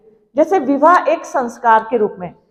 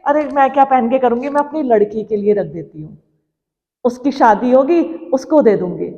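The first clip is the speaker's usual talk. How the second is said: mother's private thought, a little lowered; lightly voiced mother; 3 semitones lower than usual. Mother saving jewellery for her daughter, in a lightly acted, subdued voice. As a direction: lightly act a mother giving up her own treat. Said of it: "वो क्या सोचती है".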